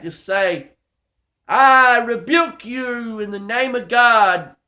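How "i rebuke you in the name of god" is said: slow, firm and louder, each word weighted; rebuke without holding back. Shown as a demonstration. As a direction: command the devil to leave, slowly. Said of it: "oh, don't even hold back".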